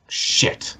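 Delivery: breathless whisper of sudden dread; a guard whispers as it dawns on him; whispered curse. Acted. Guard realizes who they are.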